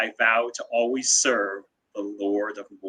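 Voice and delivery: acted quiet whisper. Retelling how a character quietly swears the vow, whispering quietly. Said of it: "then he whispers quietly".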